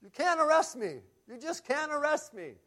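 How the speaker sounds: high-pitched mock shout at the cops; retold shout. Rowdy kid shouting at the arresting cops, high mock yell. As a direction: play the rowdy kid yelling cheekily at the police. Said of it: "shouts out".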